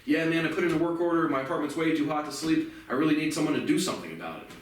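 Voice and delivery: easy, friendly, reasonable request; calm polite tone. Shown as a demonstration. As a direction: ask nicely, no edge at all. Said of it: "literally in the same tone like this".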